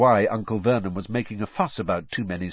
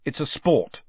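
curt; 4 semitones higher than usual. Acted. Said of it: "he said shortly".

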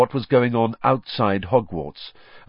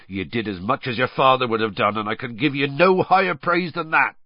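proud praise, building higher at the end; Hagrid, proud; 4 semitones higher, 4 dB louder than usual. A narrator's reading. Hagrid praising Harry with swelling chest, proudly. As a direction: swell with pride as you praise him.

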